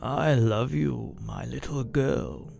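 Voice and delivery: slow, soft fatherly comfort; a gentle old dad soothing his girl; tender father. Acted. Dead father gently comforting his crying daughter.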